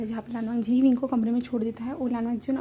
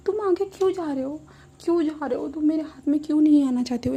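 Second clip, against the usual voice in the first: high, baffled little voice; high pleading at a rolling pot; childlike puzzlement; 4 semitones higher, 4 dB louder than usual. Retold or imitated. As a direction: coax the pot like a toddler. Drunk Wing chasing a flowerpot.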